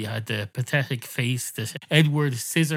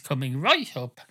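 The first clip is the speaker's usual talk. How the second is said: catchphrase delivery. Acted. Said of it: "make it a catchphrase".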